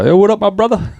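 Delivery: high, put-on Black American slang greeting; exaggerated high-pitched Black American greeting; reverse code switch. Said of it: "It's weird to reverse code switch".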